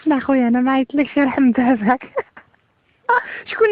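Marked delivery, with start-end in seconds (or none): 2.7-3.7 laughing. Real, not acted. Callee laughing at prank caller.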